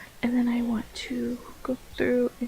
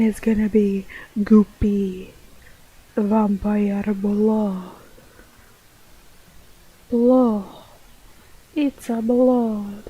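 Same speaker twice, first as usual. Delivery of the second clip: put-on slow, drawn-out Dracula-style vampire accent; 2 semitones lower, 4 dB louder, slower than usual. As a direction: ham up a Transylvanian vampire accent. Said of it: "fake ac-, vampire accent".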